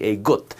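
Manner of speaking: "a gut" said as a Punjabi word, lightly; "a gut", a quick Punjabi aside. Shown as a demonstration. Teacher naming the braid in his native Punjabi, "a gut". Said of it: "as we like to call it in my native language, Punjabi".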